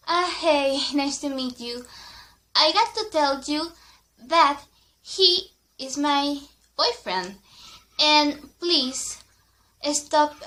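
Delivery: snotty warning to a rival; a hint of a rude girlfriend laying claim. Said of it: "she was really rude".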